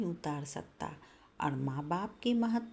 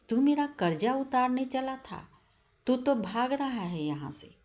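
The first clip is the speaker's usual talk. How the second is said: stern rebuke; 6 semitones higher than usual. Acted. Mother rebuking her son after slapping him, sharp and stern. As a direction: scold him for running away.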